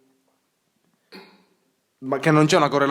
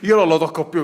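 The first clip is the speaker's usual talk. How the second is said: laughing. Real, not acted.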